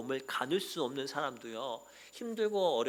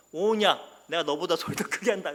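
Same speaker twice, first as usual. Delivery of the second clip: competitive challenge; 3 semitones higher, 6 dB louder than usual. Retold or imitated. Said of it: "승부욕 있는 분도".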